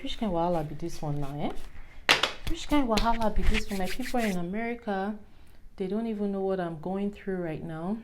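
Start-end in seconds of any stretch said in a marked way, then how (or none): 0.0-3.8 Nigerian pidgin exasperation. Retold or imitated. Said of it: "I'm like".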